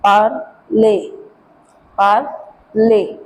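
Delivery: "parle" in two syllables, "par-lay"; French acute accent. Shown as a demonstration. Teacher demonstrating the accent's sound, "parle" as "par-lay". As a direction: end "parle" on a clear é sound. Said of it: "give me the sound of a".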